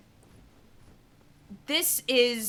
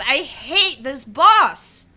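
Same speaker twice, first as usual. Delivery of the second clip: angry; 4 dB louder, much slower than usual. Real, not acted. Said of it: "I get I'm yelling".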